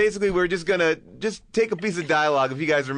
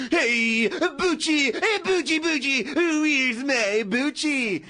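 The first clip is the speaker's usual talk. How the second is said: much higher, slow calling voice; John Travolta impression; 8 semitones higher, much slower than usual. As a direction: call out high for the dog. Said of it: "It's a really good Travolta impression".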